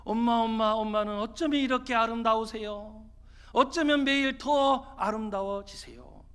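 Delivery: lightly acted son gushing to mom; admiring child. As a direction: flatter mom with a hint of childlike wonder. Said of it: "이 아들이요, 이야기를 하기 시작합니다".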